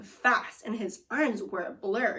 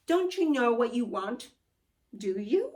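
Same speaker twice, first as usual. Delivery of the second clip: teasing wizard; 3 semitones higher than usual. Acted. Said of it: "asked the wizard".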